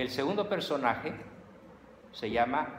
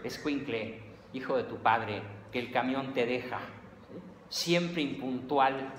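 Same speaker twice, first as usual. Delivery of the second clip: rushed nervous mom. Retold or imitated. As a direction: snap at the kid to hurry up. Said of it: "con prisa y toda nerviosa". (mamá apurada regañando al niño, aguda y fuerte)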